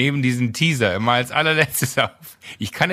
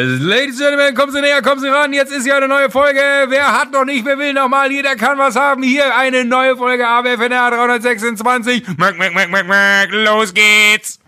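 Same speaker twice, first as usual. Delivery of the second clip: much higher, louder barker voice; fairground announcer; 11 semitones higher, 7 dB louder than usual. Pretend. Host giving in to his co-host, as a booming fairground announcer. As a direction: pull in the crowd like a fairground hawker. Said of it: "Jahrmarktansagerstimme gespielt hast".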